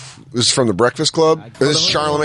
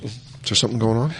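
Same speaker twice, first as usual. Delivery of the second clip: supportive teacher; 5 dB quieter, much faster than usual. Retold or imitated. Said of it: "the supportive teacher's supposed to go".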